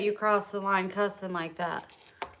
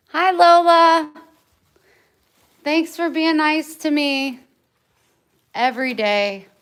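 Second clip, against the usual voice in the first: sweet pet voice; 5 semitones higher, 11 dB louder than usual. Real, not acted. Owner greeting her dog Lola in a sweet high voice. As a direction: coo at the good dog.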